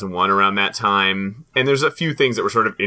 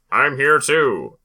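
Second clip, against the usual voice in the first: like a talking doll when you yank the string; pull string toy; 3 semitones higher, slower than usual. Retold or imitated. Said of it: "doll where you pull the string".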